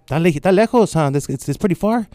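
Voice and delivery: high, fretting mother in Spanish; worried mom. Retold or imitated. Mom hearing he's leaving, high and worried. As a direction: tut about the distance like a mom.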